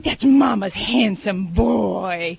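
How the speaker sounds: put-on slow, fond baby-talk statement. Shown as a demonstration. Vet demonstrating a baby-talk statement to a pet, slow. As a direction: tell the dog he's handsome, slow and fond.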